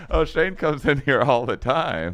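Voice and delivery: imitating chatty elves, high and loud; high, loud, casual elf voice; retold elves. Elves tell the tripping friend about a regular visitor, high and loud. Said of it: "And then they're like".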